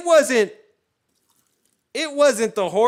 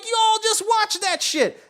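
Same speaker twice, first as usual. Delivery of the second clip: high, loud incredulous cop; mock outrage; 4 dB louder than usual. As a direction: call them out, hammed up.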